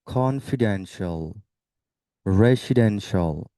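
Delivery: কনফিডেন্সিয়াল measured out, ending in "shol"; model pronunciation. Shown as a demonstration. Teacher showing how it is pronounced, careful "shol" endings. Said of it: "এটার উচ্চারণটা হবে".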